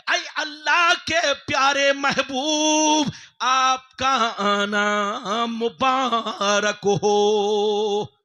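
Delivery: slow, loud and drawn out; very slow ringing blessing; solemn loud blessing. Acted. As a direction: bless him like a voice from heaven. Heavenly voice welcomes the Prophet.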